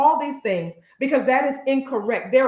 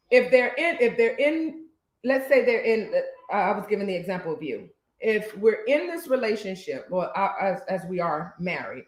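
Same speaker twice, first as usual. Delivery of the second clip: halting false starts and restarts; careful stuttering. Real, not acted. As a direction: pick the words cautiously, stumbling a little. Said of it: "I'm stuttering a little bit".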